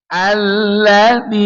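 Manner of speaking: Alladzi slow, the end falling. Shown as a demonstration. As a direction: let Alladzi drop at the end. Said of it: "Dia harus turun dia".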